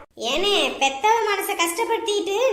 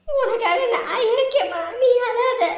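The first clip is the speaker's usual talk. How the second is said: consoling; 2 semitones higher, slower than usual. Acted. Consoling the crying mother.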